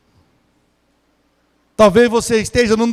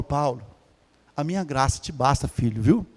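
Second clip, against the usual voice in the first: tender God's voice; 6 semitones lower than usual. Acted. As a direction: comfort him gently like a father. God speaks tenderly to Paul.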